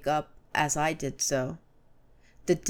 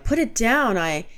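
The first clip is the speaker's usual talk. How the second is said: higher, louder urgent command; urgent cry; 5 semitones higher, 5 dB louder than usual. A narrator's reading. Narrator shouting at Gibran to drop the dog, urgently. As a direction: order him to drop it. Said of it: "I cried".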